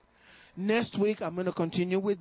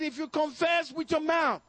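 scripture shout; 6 semitones higher than usual. Real, not acted. Preacher shouting scripture to the church. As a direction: cry out the verse.

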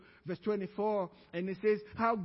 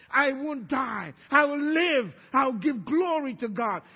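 raised, driving sermon delivery; preaching; 4 semitones higher, 5 dB louder than usual. Real, not acted. Preacher urging the congregation toward eternal life, raised voice. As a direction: preach it with rising force.

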